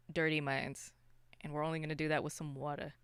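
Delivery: normal talking voice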